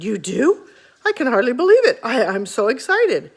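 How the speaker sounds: the rhino can hardly contain himself; excited. Acted. Rhinoceros thrilled at father's offer, excited. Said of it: "danced around in a circle".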